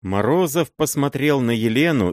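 usual speaking voice

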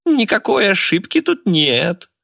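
high, slow gloating laugh through the words; laughing gleefully. Acted. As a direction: cackle it out in triumph. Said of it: "расхохоталась Мурена".

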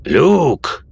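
loud, high call of a name. A narrator's reading. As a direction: call to a friend from afar. Friend spots him and calls out.

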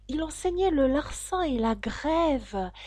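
high, slow, wistful lament; sighing. A narrator's reading. Mock Turtle recalls the old master's lessons, sighing. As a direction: draw it out plaintively, high in the voice. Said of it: "avec un soupir".

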